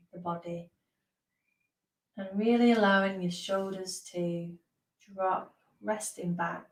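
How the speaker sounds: unhurried guidance with long pauses; guided meditation. Real, not acted. Meditation teacher settling listeners into position, guided meditation. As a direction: ease them gently into stillness, pausing between phrases.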